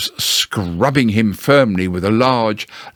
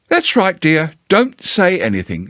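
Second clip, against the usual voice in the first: high, soothing mother voice; Kanga's voice; 6 semitones higher than usual. Acted. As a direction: hush him like a child.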